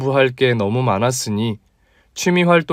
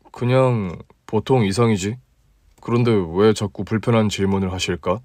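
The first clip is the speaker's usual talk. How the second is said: a touch lower, relaxed guy talking to a friend; easygoing male colleague, slightly deeper; 3 semitones lower than usual. Acted. Male lead replying. (조금 낮고 편안한 남자 목소리)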